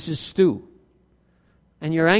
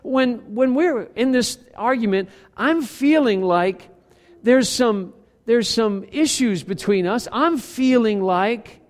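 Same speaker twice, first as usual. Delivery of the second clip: slow, gentle model of calm talk; calm I-statement; 2 semitones higher than usual. Shown as a demonstration. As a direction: show how to say it calmly. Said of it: "You say to the person".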